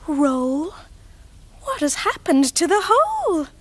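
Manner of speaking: lively picture-book reading; reading to children. Acted. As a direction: read it like a bedtime picture book. Reads picture book aloud.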